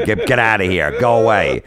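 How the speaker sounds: hammed-up sending away; mock dismissive shout. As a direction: imitate someone shooing a person off, raising the voice. Dice sending Lenny away, acted.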